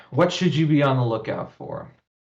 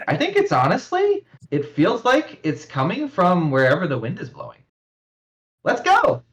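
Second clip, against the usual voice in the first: put-on very high, eager young woman; shrill-free excited girl calling out; Toya's high voice; 6 semitones higher than usual. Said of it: "says Toya".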